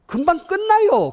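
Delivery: high, loud and slow, teasing; hammed-up "it'll be quick"; mock promise. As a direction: drag out the false promise sweetly.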